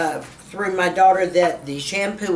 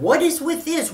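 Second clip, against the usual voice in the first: surprised; 10 semitones higher than usual. Retold or imitated. Retelling her surprise at hair.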